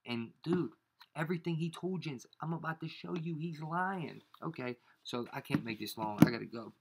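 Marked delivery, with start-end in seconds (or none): none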